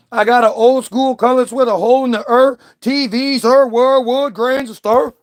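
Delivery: half-perform the verse like a Southern rapper; a hint of a St. Louis rap flow; a rapper's verse. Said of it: "A rapper does that verse".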